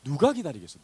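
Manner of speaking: ordinary delivery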